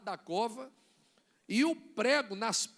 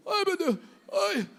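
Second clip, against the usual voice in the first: high, drawn-out mock wail; mock dying panic; 6 semitones higher, 4 dB louder than usual. Preacher acting out someone sure they are dying, mock panicked wail. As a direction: wail it like a hammed-up collapse.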